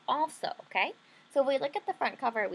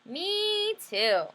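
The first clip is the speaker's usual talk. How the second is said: put-on much higher little girl voice; high eager little sister; 9 semitones higher, 4 dB louder than usual. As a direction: chirp it eagerly like a small sister. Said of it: "she said".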